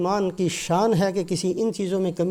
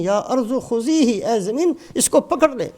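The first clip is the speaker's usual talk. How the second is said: جلال; 3 semitones higher than usual. Retold or imitated. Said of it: "جلال میں فرماتے ہیں". (جلال بھرے حکم کی نقل)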